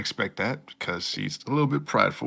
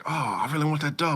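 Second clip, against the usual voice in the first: put-on high, fast, childish whine; a lightly voiced kid wanting a toy; childish longing; 8 semitones higher, much faster than usual. Heroine wanting the doll from the kids' meal, lightly whiny.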